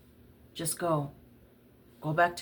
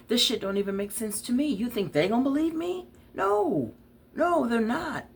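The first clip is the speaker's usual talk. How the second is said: bitter outburst; 6 semitones higher than usual. Acted. Bitter argument about the police.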